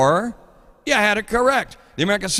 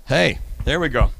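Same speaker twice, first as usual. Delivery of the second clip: ordinary delivery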